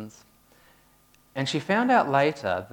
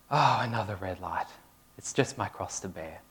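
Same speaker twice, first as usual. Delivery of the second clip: sighing complaint; 3 semitones lower, 4 dB quieter than usual. Retold or imitated. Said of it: "Usually with a big sigh".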